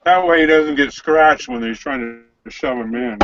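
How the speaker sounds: talking through a mouthful; words round a bite of food; mouth full. Real, not acted. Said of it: "Quit talking with your mouth full".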